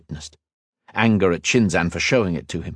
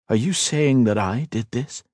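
incredulous; 4 semitones higher than usual. Acted. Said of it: "Ethan asked incredulously".

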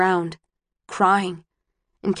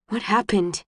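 softened voice. A narrator's reading. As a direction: soften and ask gently. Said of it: "His voice softens".

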